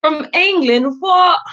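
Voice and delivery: high mock-British "what?"; British accent. Reacting to a viewer from England in a put-on British accent. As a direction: play up a posh English surprise.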